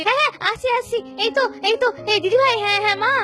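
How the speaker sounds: breathless hurry. Acted. Daughter-in-law rushing in breathless.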